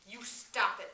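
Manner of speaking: loud, sharp cry to stop; shrill. A narrator's reading. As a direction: shout him down, shrill. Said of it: "said Piggy shrilly".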